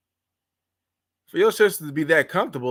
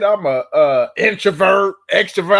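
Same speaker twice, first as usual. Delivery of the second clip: loud mock of trendy people; mocking quote; 5 dB louder than usual. Host mocking people online, mock-loud voice. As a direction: parrot the jargon loudly, mocking. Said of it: "What they said".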